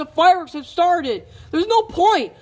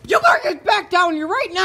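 calling shout; 5 semitones higher than usual. Acted. Voice calling from elsewhere.

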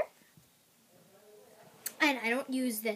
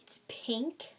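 whisper; 6 dB quieter than usual. Real, not acted. Whispering during haul video.

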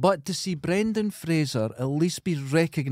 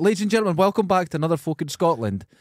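podcast host intro; 3 semitones higher, faster than usual. Shown as a demonstration. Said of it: "See, if I didn't do that, I'd melt".

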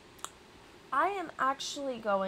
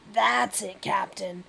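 lightly aggressive Rat King character; 6 dB louder, slower than usual. Acted. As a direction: push the words out as the rat. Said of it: "that is an aggressive voice".

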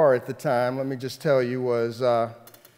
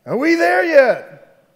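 put-on long, slow, whiny kid yell, much higher; 14 semitones higher, 11 dB louder, slower than usual. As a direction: drag it out like a fed-up kid. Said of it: "somebody else would yell out".

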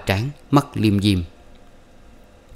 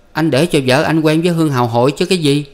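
higher, louder, exasperated explaining; blunt young man; 7 semitones higher, 4 dB louder than usual. Acted. Xuyên bluntly telling Sủ what is meant, exasperated.

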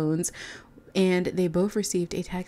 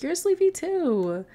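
higher, louder, slow teasing comeback; teasing Angelo; 11 semitones higher, 4 dB louder, slower than usual. Retold or imitated. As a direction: drag it out to tease her back. Narrator voices Angelo teasing back.

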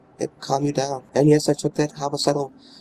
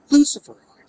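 Luciferoids yelped high and loud; mock the word Luciferoids with a high squeal; squeaked mockery; 11 semitones higher, 7 dB louder than usual. Shown as a demonstration. Gamer mocking odd game term, Luciferoids squealed high. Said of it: "Again, Luciferids".

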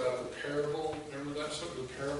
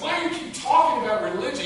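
mock exasperated rebuke; 9 semitones higher, 9 dB louder than usual. Mock quote Jesus never said.

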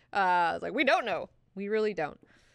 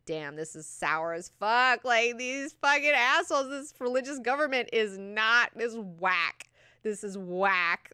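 loud, rising indignant rant; hammed-up disgust at the whole scene; mock outrage; 5 semitones higher, 5 dB louder, slower than usual. Acts out character's disgusted outburst.

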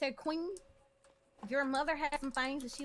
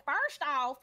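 aggressive tone; 6 dB louder than usual. Shown as a demonstration. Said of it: "instead of".

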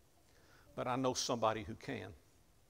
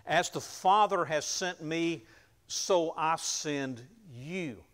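slow, louder solemn words of Jesus; solemn commission; 5 semitones higher, 7 dB louder, slower than usual. Acted. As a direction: send them out with weight. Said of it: "he said".

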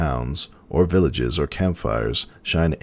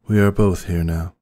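higher, gentle princess voice; Celestia's voice; 4 semitones higher than usual. A narrator's reading. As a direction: speak as an ancient, weary princess.

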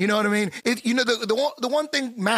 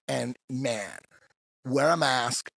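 lower, much softer confiding official; hushed official warning; 8 semitones lower, 5 dB quieter than usual. Pretend. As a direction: lean in and warn them quietly. Voicing Chinese health minister on TV.

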